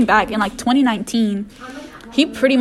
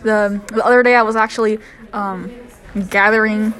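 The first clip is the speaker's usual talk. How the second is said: put-on Southern accent. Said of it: "we chose Southern accents".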